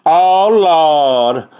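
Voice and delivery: exasperated mock lament, Oh Lord up high; lightly voiced weary friend; imitating Channing. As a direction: ham up a fed-up babysitter. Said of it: "I hear her go".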